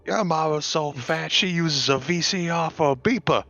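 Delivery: high-pitched your-mama jab; joke-telling voice. Pretend. Player tops another's your-mama joke, joke-telling voice.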